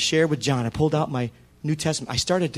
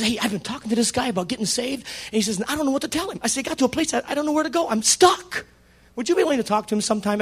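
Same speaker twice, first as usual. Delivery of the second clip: higher, quicker asking for help; eager Joe; 6 semitones higher than usual. Retold or imitated. Joe asking the pastor to talk to his coworker. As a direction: rush the request a bit.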